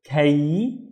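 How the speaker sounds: KAY with the final E glide sounded; careful isolated "kay"; syllable demo. Shown as a demonstration. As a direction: say "kay" alone, letting the ee ring at the end. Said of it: "don't forget to pronounce the E".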